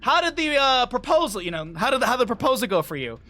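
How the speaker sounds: a hint of a smirking teacher; teasing teacher. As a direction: needle the student with a mock-innocent question. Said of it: "My English teacher goes".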